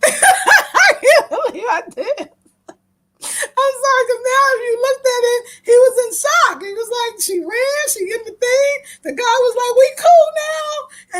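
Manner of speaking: high, cracking with laughter; can barely get it out for giggling; laughing it out. Real, not acted. Telling viewers about the escape, laughing hard.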